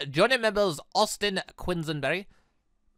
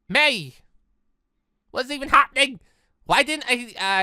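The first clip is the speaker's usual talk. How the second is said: alarmed cry; 6 semitones higher, 5 dB louder than usual. Acted. Sudden attack, alarmed.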